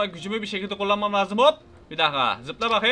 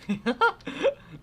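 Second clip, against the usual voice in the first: burst of laughter; 4 semitones higher than usual. Real, not acted. Falls off, laughing.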